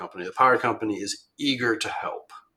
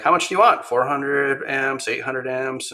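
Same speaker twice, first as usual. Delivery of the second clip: upbeat, much higher voice with a slow list; eager power company rep; 4 semitones higher, 3 dB louder than usual. Retold or imitated. Power company rep asks how many amps, eager and high. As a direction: play the keen utility rep offering more.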